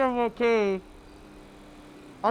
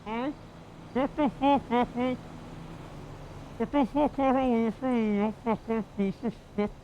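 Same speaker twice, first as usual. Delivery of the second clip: put-on snarling Welsh accent, muffled; aggressive Welsh accent. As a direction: threaten him in a hard Welsh accent. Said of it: "aggressive Welsh accent".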